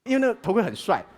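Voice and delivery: normal talking voice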